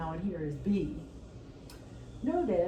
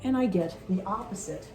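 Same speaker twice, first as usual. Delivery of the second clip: louder, pushing over the noise; yelling over leaf blower; 4 dB louder than usual. Real, not acted. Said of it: "Really apologize about the leaf blower".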